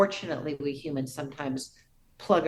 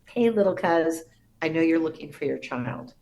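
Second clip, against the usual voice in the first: excited cousin; 7 dB louder than usual. Retold or imitated. Cousin calling with good news.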